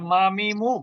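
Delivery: "মা, মি, মু" with a Bengali ম sound; letter demonstration. Shown as a demonstration. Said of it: "এটা বাংলা ময়ের মতন উচ্চারণ হয়". ("মা, মি, মু" বাংলা ময়ের মতন উচ্চারণে)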